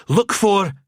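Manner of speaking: high, loud, cut off; stunned echo. A narrator's reading. Gruber echoes the riddle, stunned and high. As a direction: blurt it in disbelief.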